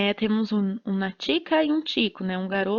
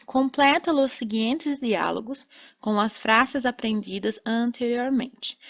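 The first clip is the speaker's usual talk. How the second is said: reading the instruction. Shown as a demonstration. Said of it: "O exercício é".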